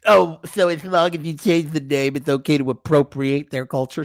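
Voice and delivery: lightly mocking whiny quote; mocking woke voice. Host mocking his co-host's woke remark in a snide voice. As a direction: parrot him sarcastically. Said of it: "is Unique dropping some wokester".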